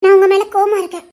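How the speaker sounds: loud but harmless pouting anger; mock anger. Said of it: "பொய்யான கோவம் கூட அழகா". (செல்லக் கோபத்துடன் சத்தமாக)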